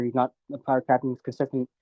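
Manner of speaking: mumbled, run-together explanation; words slightly swallowed; mumbling. Real, not acted. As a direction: mumble through the point. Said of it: "You're mumbling".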